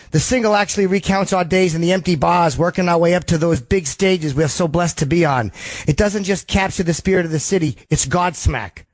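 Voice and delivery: a hammed-up Boston quote read; the singer's Boston accent. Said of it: "That was the worst Sully impression".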